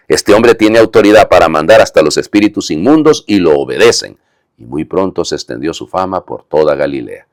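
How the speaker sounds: measured liturgical gospel reading; scripture reading. Acted. Priest reading the gospel to the congregation, measured and solemn. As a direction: proclaim the gospel text to the congregation.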